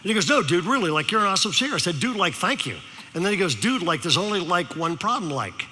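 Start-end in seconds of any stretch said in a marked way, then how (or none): 0.3-1.7 mock earnest Valley kid; Valley teenager. Sophomore insists on his compliment, imitated Valley-teen talk. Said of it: "you know how they talk". 2.0-2.8 mock Valley-dude thanks; Valley teenager. Speaker thanks teen in his language, mock Valley talk. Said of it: "decided to use his language". 3.5-5.7 put-on Valley teenager. Sophomore raises one problem, mock Valley-kid talk. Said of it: "You ever met a teenager talk like this".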